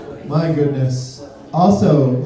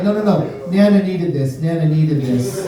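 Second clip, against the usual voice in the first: lightly voiced grandma. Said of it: "She's like".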